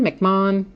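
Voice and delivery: McMahon said "mack-MAHN", two syllables; alternative pronunciation. Shown as a demonstration. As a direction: say McMahon with an open "ah", h silent. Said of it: "I always say it wrong".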